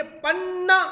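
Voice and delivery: पन्ना called out high and loud, weight on पा; loud model पन्ना with the first syllable stressed. Shown as a demonstration. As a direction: lean hard on the पा of पन्ना for the class to repeat. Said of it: "पा पर।".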